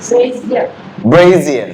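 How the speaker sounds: "Brazier" as BRAY-zee-uh, with a buzzed z; correct pronunciation. Shown as a demonstration. Teacher gives the class the correct pronunciation, clearly modelled. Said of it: "what's the correct pronunciation".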